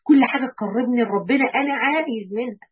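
normal talking voice

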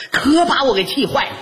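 worked-up, wailing complaint; mock exasperation. Husband tells partner how upset he was, hammed-up exasperation. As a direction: play up being driven mad.

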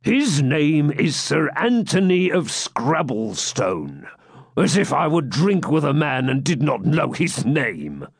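high, slow, lightly voiced friar; bluffing friar. Friar inventing the knight's name for Locksley, bluffing. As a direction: bluff it out grandly, drawing out the name.

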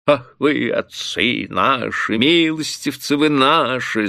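high, drawn-out wheedling peasant; tipsy bailiff fawning in a singsong. A narrator's reading. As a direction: sing it out, tearful with devotion. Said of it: "заговорил он нараспев и с таким умилением".

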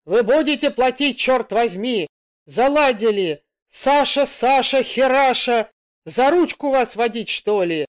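thunderous angry driver's shout; furious roar. Acted. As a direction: bellow it at the dithering passengers. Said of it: "раздался громоподобный рык".

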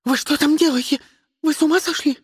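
high alarmed yell. A narrator's reading. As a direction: shriek it from the back. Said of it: "завопила Фиона".

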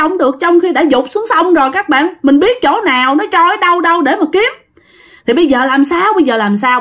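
acted exasperated nagging, mostly high-pitched; fed-up wife telling him off; wife's scolding. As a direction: scold the husband in a rising, running tirade. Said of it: "thím hai bà chửi".

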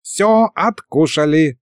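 high, slow squeaky dragon head; contented squeak. A narrator's reading. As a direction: squeak it out with drawn-out satisfaction. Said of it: "довольно пропищала левая голова".

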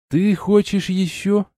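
can't believe what he hears; amazed. A narrator's reading. Hero asks Arna, amazed and slow. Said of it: "изумился я".

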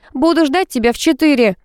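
narrated whiny parting shout; plaintive call. A narrator's reading. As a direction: call out hurriedly, pleading a little. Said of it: "успела выкрикнуть я жалобно".

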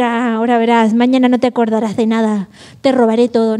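mock villain threat. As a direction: play a hint of a sneering robber. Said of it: "Nadie puede decir".

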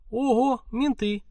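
sudden high alarm; startled cry at the window; high startled exclamation. A narrator's reading. Police cars arrive outside.

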